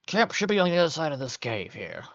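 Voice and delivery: a touch of calling ahead. Acted. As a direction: call out lightly to the travelling party. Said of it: "Vargan calls out".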